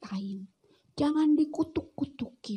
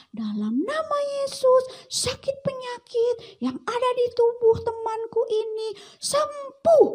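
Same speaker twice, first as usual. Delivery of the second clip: fervent prayer; 10 semitones higher than usual. Acted. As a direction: pray boldly for healing. Praying over a sick friend.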